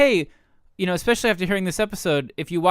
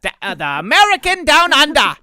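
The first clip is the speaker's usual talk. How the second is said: higher, louder title reveal; pitch announcement; 8 semitones higher, 7 dB louder than usual. Pretend. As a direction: sell the title like a trailer.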